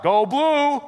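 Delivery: high, drawn-out fan holler; imitated yell. Preacher imitating somebody heckling in the first service, yelling. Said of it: "somebody yells out".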